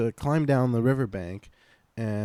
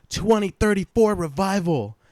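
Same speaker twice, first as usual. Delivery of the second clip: weird stranger; 9 semitones higher, 5 dB louder than usual. Retold or imitated. Strange man's cryptic line, repeated.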